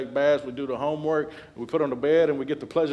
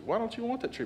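snake voice; 11 semitones higher, 3 dB quieter than usual. Retold or imitated. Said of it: "serpent whispering".

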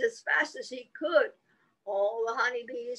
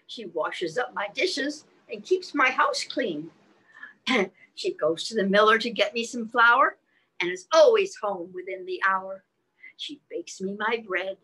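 rhyme recitation. Acted.

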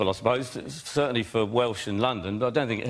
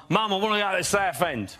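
high-pitched mockney kid; exaggerated London mockney, pitched up; mockney accent; 6 semitones higher than usual. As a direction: whine to mum in put-on Cockney. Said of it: "then in pure mockney".

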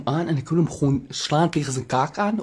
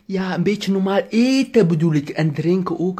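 high exasperated plea; 5 semitones higher than usual. Retold or imitated. Pleading with the eater.

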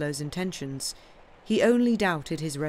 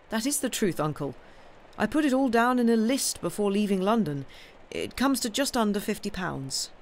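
higher-pitched, lightly voiced young man; earnest young nephew; 6 semitones higher than usual. Nephew confessing debts to his uncle, earnest. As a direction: insist you are telling the truth.

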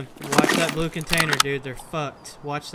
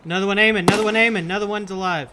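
urgent warning; 5 semitones higher, faster than usual. Real, not acted.

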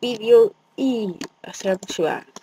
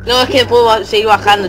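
loud frightened protest; 6 dB louder, faster than usual. Real, not acted. Frightened refusal to go down.

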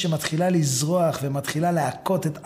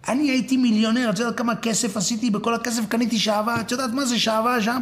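protesting husband; 6 semitones higher, faster than usual. Acted. Husband defends his purchase.

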